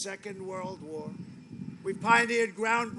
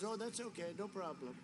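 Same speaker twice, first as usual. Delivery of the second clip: unbothered, cool; 6 dB quieter than usual. Retold or imitated. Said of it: "she's very cool".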